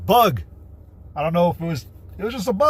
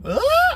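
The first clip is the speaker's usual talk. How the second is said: high-pitched mock scream; imitated yell. Shown as a demonstration. Man trying to reach a woman's octave, mock scream. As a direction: give a brief pretend shriek. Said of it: "to yell like that".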